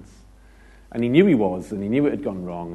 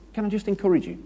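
much higher, sugary mock encourager; 10 semitones higher, faster than usual. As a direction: lightly parody the overeager church encourager. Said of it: "people that just say".

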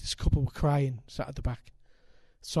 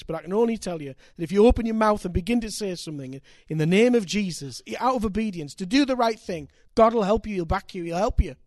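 rising to a loud, high plea; fervent urging; 6 semitones higher, 5 dB louder than usual. Retold or imitated. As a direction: press them harder line by line. Preacher urging the couple to forgive.

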